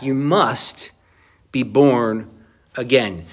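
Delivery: "You must" then pauses before "be born" and "again"; emphatic. Shown as a demonstration. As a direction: space the words out to drive it home. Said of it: "It's emphatic".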